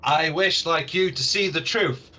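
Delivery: lightly voiced orc, earnest and deliberate; a hint of an orc speaking gravely; orc leader. Orc appeals to the visitors, lightly voiced, emphatic. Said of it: "an orc that's slightly bigger".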